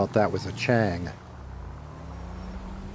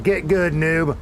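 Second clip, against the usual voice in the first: high, loud gamer trash talk; mocking taunt; 6 semitones higher, 4 dB louder, slower than usual. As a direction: taunt a noob, higher and louder.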